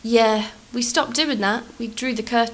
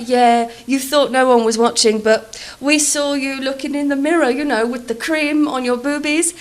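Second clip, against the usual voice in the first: mock Italian accent; 4 semitones higher, 6 dB louder than usual. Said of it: "attempt an Italian accent".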